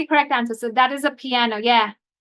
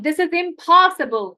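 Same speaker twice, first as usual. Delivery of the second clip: raised, fed-up reading of impossible; teacher voicing the exasperated character; exasperated line; 3 semitones higher, 4 dB louder than usual. Shown as a demonstration. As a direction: read it as the upset character. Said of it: "pay attention in the dialogue".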